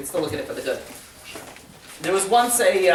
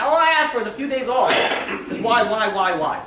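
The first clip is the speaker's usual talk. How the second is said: higher-pitched mock lament; exasperated pleading; 4 semitones higher than usual. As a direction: plead upward like a put-upon father. Father complains to God about trip.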